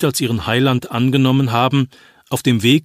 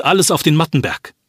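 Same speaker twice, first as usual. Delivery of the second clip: raised, urgent rallying cry; urgent call; 4 semitones higher than usual. Acted. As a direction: push them to move now. Urging villagers to flee.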